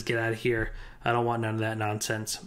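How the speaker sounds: put-on low, gruff, dismissive old miser; grumpy old Scrooge. Retelling Scrooge refusing his nephew's Christmas invite, low and grumpy. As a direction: brush him off like a bitter old man.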